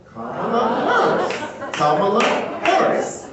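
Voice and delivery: very slow "Kamala" stressed on the first syllable; coached name pronunciation. Retold or imitated. Wife making husband repeat the name, slow stretched "Kamala" as comma-la. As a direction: lead a repeat-after-me, stretching "Kamala Harris". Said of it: "Say it with me".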